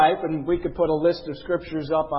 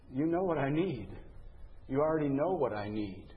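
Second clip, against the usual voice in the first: quiet prayer; 9 dB quieter than usual. Pretend. Voicing a private prayer.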